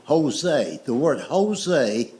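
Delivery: Jose said slowly with an H; careful Jose. Shown as a demonstration. Explaining the word Jose to the cousin, slow and careful. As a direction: spell out the H sound in Jose, slowly. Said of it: "pronounced with an H".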